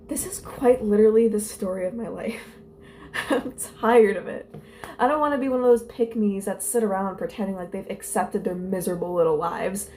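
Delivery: put-on lightly theatrical read-aloud of teen angst; dramatic diary reading. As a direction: read your old diary with mild melodrama. Reads old diary entry aloud.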